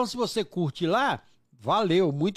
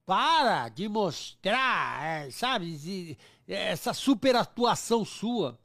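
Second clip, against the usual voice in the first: slow, deliberate scolding; slow retold scolding; 3 semitones lower, much slower than usual. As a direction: spell it out slowly, half-stern. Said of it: "Eu falava assim".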